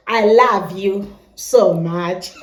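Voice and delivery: slow Kenyan accent, "love" said "lav". Shown as a demonstration. Nigerian vlogger in Kenya imitating the local Kenyan accent. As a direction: draw it out slowly in a Kenyan accent. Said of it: "we say here".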